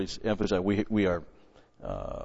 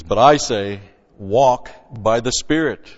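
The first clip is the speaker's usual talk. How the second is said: much louder, slow, emphatic command; booming emphatic quote; 2 semitones higher, 9 dB louder than usual. Shown as a demonstration. Preacher proclaiming the apostle's command to his flock, booming. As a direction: thunder out the command.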